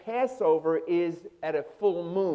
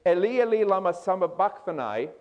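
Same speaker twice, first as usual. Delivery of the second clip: mild retold loud cry; 2 semitones higher than usual. Preacher quoting Jesus on the cross, mildly raised cry. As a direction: lift the first words, imitating a loud cry. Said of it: "with a loud voice saying".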